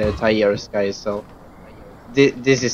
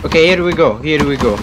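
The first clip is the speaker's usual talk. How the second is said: excited bracing; 5 dB louder, faster than usual. Real, not acted. Bracing for collapse.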